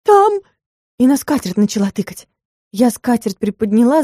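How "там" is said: high, loud frightened cry; voice breaking shriek. A narrator's reading. Client spots the sleeping cat, frightened breaking shriek. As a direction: she sees something under the tablecloth, cries out. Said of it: "проговорила срывающимся голосом".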